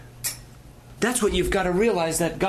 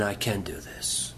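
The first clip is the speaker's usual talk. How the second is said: slow, soft declaration of faith; quiet resolve; 5 semitones lower than usual. Retold or imitated. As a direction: affirm it gently to yourself. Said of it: "you start saying".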